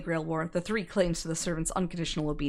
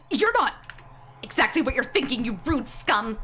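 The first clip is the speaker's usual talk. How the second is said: angry; 4 semitones higher than usual. Acted. Master yells at the servant.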